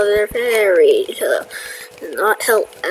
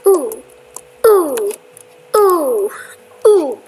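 excited ooh; 5 semitones higher, 7 dB louder, much slower than usual. Real, not acted. Excited at finding loot.

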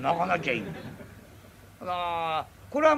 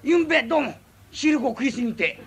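laughing mock apology; 6 semitones higher, 6 dB louder than usual. Mock apology from a sweets eater.

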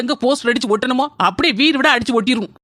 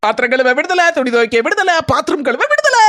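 gleeful cheering; 5 semitones higher than usual. Acted. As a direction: cheer it out, released from the chores. Celebrating freedom from chores.

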